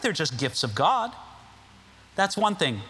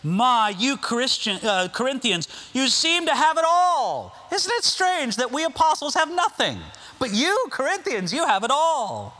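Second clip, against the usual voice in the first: high mock-envy, raised; sarcastic paraphrase of Paul; 5 semitones higher than usual. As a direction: sigh in fake admiration. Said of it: "using sarcasm to pop the balloon".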